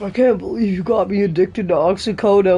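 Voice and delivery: lightly put-on voice of a betrayed addict; Eddie Brock. Hero accuses his doctor of getting him addicted, lightly voiced. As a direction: do a mild comic-book character voice. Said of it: "Why does he sound like Eddie Brock?".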